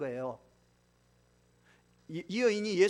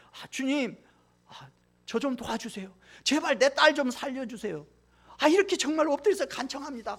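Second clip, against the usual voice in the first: acted begging, rising louder and higher toward the end; imitating a desperate plea; 5 semitones higher, 5 dB louder than usual. Mother begging Jesus to save her daughter, imitated with mounting urgency. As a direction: beg like a mother on her knees for her child. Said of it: "뭐 손을 비비면서 계속 엎드려 갖고 절하면서".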